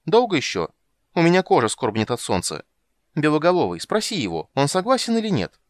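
a siren nagging from the water; impatient siren. Acted. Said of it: "пропела она".

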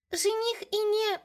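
put-on high, slow childish singsong; little sister teasing, high singsong, cut off; teasing little girl. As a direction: start the tease again like a cheeky kid. Child starts chant again.

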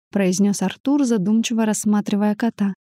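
usual speaking voice

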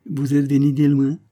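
put-on high, loud Italian-accented concern; obliging old Italian merchant inquiring; solicitous. A narrator's reading. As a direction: ask with eager, attentive care. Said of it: "avec sollicitude".

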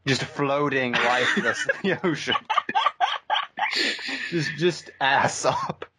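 laughing. Real, not acted. Laughing while describing.

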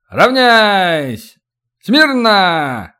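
high barked parade commands; shouting drill sergeant. Acted. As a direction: bark it across the square. (командный крик)

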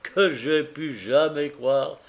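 earnest husband pouring out his regret; a man blaming himself for his blindness; grieving carrier. Acted. Carrier tells Tackleton of his wife's sorrow, earnest and grieving.

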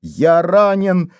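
high slow moaning cry for help; стон. A narrator's reading. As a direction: groan out his pain. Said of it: "стонал Вайнер".

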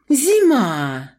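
high startled cry of a name; startled call. A narrator's reading. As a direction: blurt the name out in alarm. Shopkeeper calls out startled.

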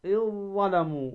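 "إذ ظلموا" with long doubled ظ; merged recitation. Shown as a demonstration. Teacher repeats the example, merged ذ. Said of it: "تدغم الذال في الضاء".

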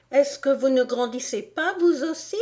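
high Alice voice, rising at the end; high, pointed question; protesting Alice. Acted. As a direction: challenge him up high. Alice challenges the Dormouse.

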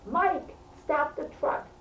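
high-pitched mock yell at normal volume; imitated shout to a neighbour, high but contained; retold scream. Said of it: "He's screaming".

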